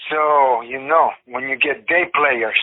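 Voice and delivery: slow, halting attempt at a German accent; vague, unconvincing German accent; botched German accent. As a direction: imitate a German director, accent gone astray. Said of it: "I don't know why her accent is whatever this is".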